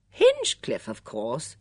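triumphant. A narrator's reading. Patrick names his suspect, triumphant. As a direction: announce it as the solved puzzle. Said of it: "said Patrick triumphantly".

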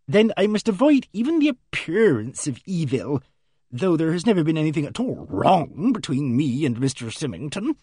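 lightly voiced prim lady; a hint of a fussy spinster. Miss Ginch continues.

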